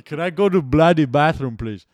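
loud, high mock accent; hammed-up Italian Montreal kid. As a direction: overdo the accent like a caricature. Mock expected accent again.

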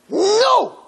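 high, drawn-out dramatic wail; pained scream. Retold or imitated. Soul screams from earth to heaven, pained wail. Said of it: "painful soul voice screaming from earth".

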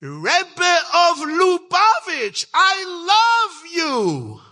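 put-on high, slow shout with a French accent; French-accented little girl. Little French girl declares her love to the Rebbe, French accent. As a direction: imitate a little girl's loud, drawn-out cry in a French accent. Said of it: "in a French accent, but in English".

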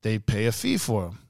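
measured crime boss with careful English; imitated evil boss. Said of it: "An evil accent".

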